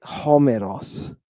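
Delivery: "Homeros" slowly, stressing the opening "Ho"; slow "Homeros", first syllable leading, falling at the end. Shown as a demonstration. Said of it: "Look where the accent is".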